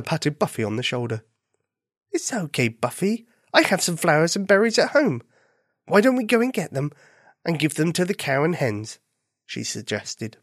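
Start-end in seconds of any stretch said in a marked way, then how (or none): 2.1-9.0 lightly voiced, kindly rabbit; reassuring rabbit friend. Rabbit comforting bunny with a plan, reassuring. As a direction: reassure gently, then offer a plan.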